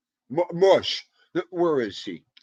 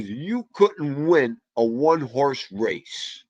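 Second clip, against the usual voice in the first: father's put-down; much slower than usual. Retold or imitated. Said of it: "One day he goes".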